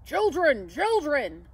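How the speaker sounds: loud, falling calls; Santa's shout. A narrator's reading. Santa summoning the children, shouting. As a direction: call out to the children, firm and full. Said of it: "I heard Santa shout".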